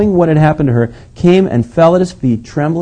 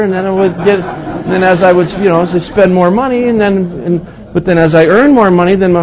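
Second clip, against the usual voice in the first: laughing through the words, pitched up; amused laughing ramble; 6 semitones higher, 3 dB louder than usual. Real, not acted. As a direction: chuckle while telling it. Laughing at own wallet story.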